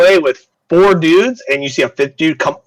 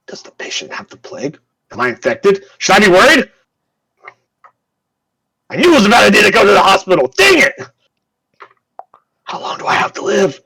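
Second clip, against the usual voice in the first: panicking guard; 7 semitones higher than usual. Acted. Guard panics about the plague.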